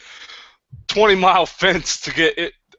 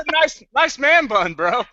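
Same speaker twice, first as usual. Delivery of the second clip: mock earnest kid; 8 semitones higher, slower than usual. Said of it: "And he goes".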